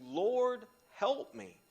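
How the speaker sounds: loud, high plea for help; pleading cry. Retold or imitated. Desperate mother calling out to Jesus, loud pleading.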